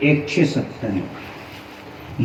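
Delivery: slow, soft whisper of the number; whispered repeat. Shown as a demonstration. Preacher repeats the acreage to the crowd in a slow whisper. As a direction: breathe it out slowly, as if in awe.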